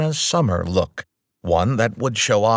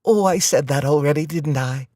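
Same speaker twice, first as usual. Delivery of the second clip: put-on South Dakota accent; 4 semitones higher than usual. A narrator's reading. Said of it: "with her heavy South Dakota accent".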